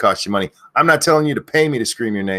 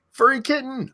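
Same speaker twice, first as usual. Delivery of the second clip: screaming a name. Real, not acted. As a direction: call the name out high. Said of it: "these people that I'm yelling".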